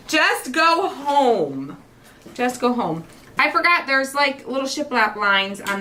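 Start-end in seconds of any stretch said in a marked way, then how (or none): 0.1-3.0 very slow, dragged-out just go home; drawn-out plea. Retold or imitated. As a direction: stretch it like a weary kid. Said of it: "they're like".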